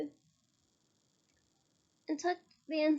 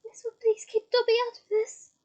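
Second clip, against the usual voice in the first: mumbled; 7 semitones higher, 7 dB louder than usual. A narrator's reading. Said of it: "Dobby mumbled".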